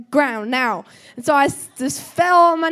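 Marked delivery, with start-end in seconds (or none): 0.1-0.8 commanding God. Retold or imitated. God's command retold.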